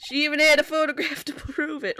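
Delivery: too Western gumshoe voice, laughing; detective voice drifting Western. Shown as a demonstration. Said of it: "I forgot what my gumshoe voice was".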